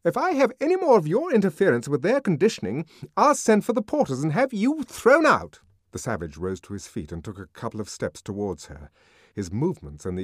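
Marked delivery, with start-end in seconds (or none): 0.0-5.6 high, loud and fast threat; bully him with authority; truculent warning. A narrator's reading. Nurse threatening to call the porters, loud truculent. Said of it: "she warned him truculently".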